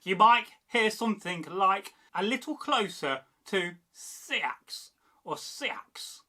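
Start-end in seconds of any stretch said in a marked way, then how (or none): 3.9-6.2 "Seax" slowly, A as in cat, slight E; Kentish open vowel. Shown as a demonstration. Teacher showing Kentish variants, slow open-vowelled "Seax". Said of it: "The A sounds like cat".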